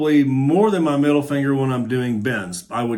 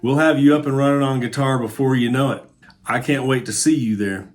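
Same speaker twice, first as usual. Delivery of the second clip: upbeat ad read; 2 semitones lower than usual. Acted. Teacher pitching his course to guitar friends, ad read. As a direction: sell the course like a quick sponsor spot.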